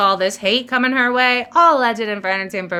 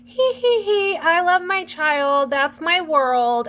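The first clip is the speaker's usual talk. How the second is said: much higher, slow, giggly mock-sweet mom voice; mocking sweet mother; 8 semitones higher, slower than usual. Mocking Blake's idea of doting mothers, high simpering voice. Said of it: "she has this weird complex about, like, women".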